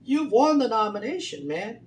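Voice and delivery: pep-talk a friend who just won; friendly urging. Retold or imitated. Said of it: "she was saying to him".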